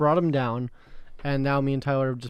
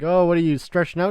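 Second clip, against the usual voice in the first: retold quote; 3 semitones higher, 5 dB louder, faster than usual. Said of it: "and he's like".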